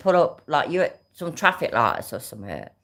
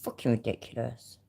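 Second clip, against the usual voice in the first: much softer, disgusted swearing under breath; angry mutter; 5 semitones lower, 8 dB quieter than usual. Real, not acted. Annoyed at the video, she mutters angry curses softly. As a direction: grumble it low to yourself.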